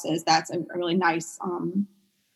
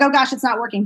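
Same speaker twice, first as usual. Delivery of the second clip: a touch of retold panic, slightly raised; lightly acted worried outburst; mock panic; 4 semitones higher, 3 dB louder, faster than usual. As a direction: fret that it's failing. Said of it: "panicking and be like".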